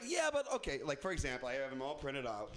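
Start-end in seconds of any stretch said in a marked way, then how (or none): 0.0-0.5 mock "Yeah, but" pitched higher, falling; same whiny dodge again; mocking excuse. Comic repeats the excuse, mocking higher whine.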